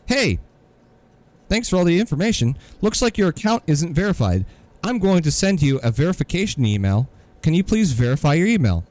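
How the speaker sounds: high, fast, mock-chirpy agent; mock support voice. Mocking the support email to him, a high chirpy agent voice. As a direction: parody the overly cheerful support reply.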